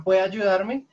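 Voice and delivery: "¿Puede ayudarme?" pushed out loud and demanding, rising; aggressive request. Shown as a demonstration. Teacher shows how blunt "can" sounds to a stranger, demanding. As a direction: bark the favour at a stranger. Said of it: "suena como muy, muy agresivo".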